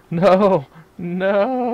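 high laughing no; laughing mock shout. Joins skit laughing.

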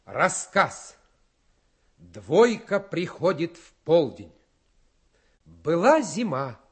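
slow, weighty storyteller's reading; slow, solemn school-recital voice; expressive reading. Acted. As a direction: read it out like a grand recital. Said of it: "только с выражением".

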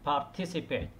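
participate stressed on the second syllable, par-TI-ci-pate. Shown as a demonstration. Teacher modelling par-TI-ci-pate for students. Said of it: "التركيز على المقطع الثاني".

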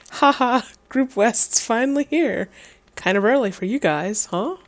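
high, lightly put-on country accent. Bonfire captain greets the late group, in a country accent. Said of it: "I can't not do a country accent".

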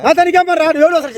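high, indignant questioning; irritated challenge. Real, not acted. Man asking who this stranger even is, irritated. Annoyed man confronts prankster.

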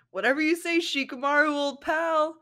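high, loud, suddenly cheerful; eager chirp. Acted. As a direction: bounce back all sunny. Naruto perks up.

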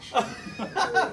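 high, startled "oh my gosh" in mock disbelief; retold dismay, voice shooting up; shocked gasp. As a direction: jump up in pitch, caught off guard. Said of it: "And I'm like".

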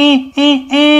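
short high-pitched "eh" cries; acted distant cries. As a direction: cry out in short bursts to be heard. Someone unseen cries out, others hear. (నటిస్తూ చిన్న చిన్న అరుపులు)

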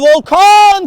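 loud rising shout of a name; excited name call. Real, not acted. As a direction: call out the player. Calling out player's name. (heyecanlı isim çağrısı)

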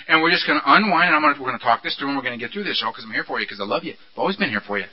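low, soft, soothing tempter; whispering beast. Acted. The beast promises Earl it loves him, low and tender. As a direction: lull him with hushed reassurance. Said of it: "beast whispering in my ear".

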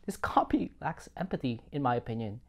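hushed whispered verdict; whispering. Real, not acted. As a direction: whisper it like a confession. Quiet judgement aside.

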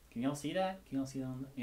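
talking around a cigarette in mouth. Real, not acted. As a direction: speak with a cigarette between lips. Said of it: "I've got a cigarette in my mouth".

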